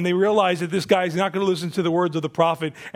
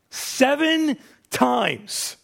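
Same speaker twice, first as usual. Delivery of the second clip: drawn-out disgust; 4 semitones higher, much slower than usual. Retold or imitated.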